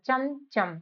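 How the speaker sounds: चमचम with the second चम said fast; second चम quick. Shown as a demonstration. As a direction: rush the second half of चमचम. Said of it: "फिर दूसरा चा जल्दी बोल दिया जाता है". (चमचम, दूसरा चम जल्दी बोलें)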